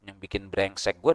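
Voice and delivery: low, soft imitation of a tattler; mock gossiping. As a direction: voice a gossip under the breath, lightly. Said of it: "Ada omongan lagi".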